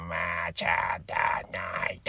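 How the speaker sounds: slow, drawn-out low announcer intro. Shown as a demonstration. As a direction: boom it like a movie trailer. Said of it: "the little thing that goes like".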